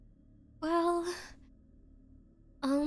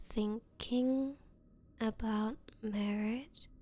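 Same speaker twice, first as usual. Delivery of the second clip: stunned whisper; 3 semitones lower, 6 dB quieter, slower than usual. Acted. Woman realising her date never meant marriage, stunned whisper. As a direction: breathe it out, much softer. Shocked he wasn't thinking marriage.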